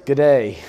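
G'day run together as "guh-DAY"; G'day with the first word squeezed to a quick "guh"; Australian shortening. Shown as a demonstration. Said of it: "they shorten everything".

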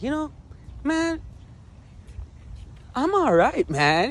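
high, loud plea; acted-out pleading with the evaluator; insistent reassurance. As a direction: insist it way up in pitch.

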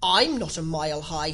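firm objection from Alice; objecting. Acted. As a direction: protest the ruling.

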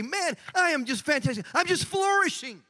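hammed-up glee, climbing high by the end; mock enthusiasm. Churchgoer answering a coworker's greeting, hammed-up and gleeful. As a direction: play up how fantastic life is.

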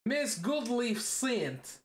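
mock Russian accent. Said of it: "in a Russian accent at the start".

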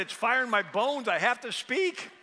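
loud, high, fervent; impassioned Jeremiah. Retold or imitated. Preacher quoting Jeremiah's compulsion to speak, loud and fervent. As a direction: declare it like fire in your bones.

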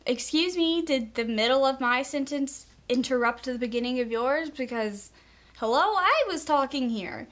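snippy, offended interruption comeback; sarcastic indignation. Retold or imitated. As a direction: put them in their place, sassy. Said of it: "It's like, um".

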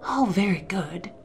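hushed whispered reply; conspirator's whisper. A narrator's reading. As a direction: breathe it out under the storm. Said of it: "whispered the second voice".

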